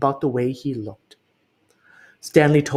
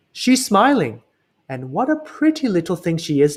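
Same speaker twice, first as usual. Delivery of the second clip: higher, lightly voiced fond crook; admiring thief; 3 semitones higher than usual. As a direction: coo over the pretty picture. Max admiring painting.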